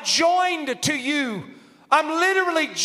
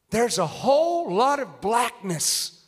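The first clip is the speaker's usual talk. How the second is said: slow prophet's discernment; 2 semitones lower, slower than usual. Retold or imitated. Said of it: "There he goes".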